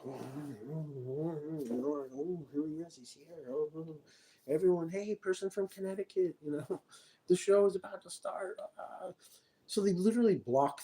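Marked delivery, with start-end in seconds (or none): 0.1-8.6 mock gossipy woman. Mocking the woman on phone.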